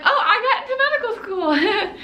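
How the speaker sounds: high, laughing awkward explanation; sheepish repeat of news. Retold or imitated. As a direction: repeat it with a nervous little laugh. Repeats news to confused family.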